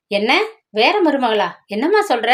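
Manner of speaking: mildly shocked, asking what she means; a light jolt of surprise on என்னம்மா; startled. Acted. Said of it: "அண்ணன் திடுக்கிட்டு போனார்".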